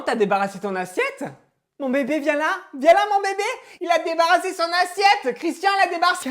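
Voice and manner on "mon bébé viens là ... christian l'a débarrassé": much higher, doting praise over a tiny chore; gushing mum. Acted. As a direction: squeal proudly at him. Mère s'extasie.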